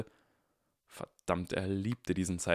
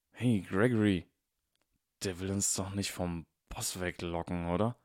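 a hint of a dim thug; lightly voiced henchman. Henchman asks his partner if Harry is luring them away, lightly voiced. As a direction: ask it like a suspicious bodyguard.

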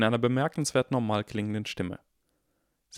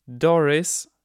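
sharp, louder warning name; 7 semitones higher, 7 dB louder than usual. A narrator's reading. McGonagall warning Doris, sharp and louder. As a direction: cut her off with a warning. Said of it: "sagte McGonagall warnend".

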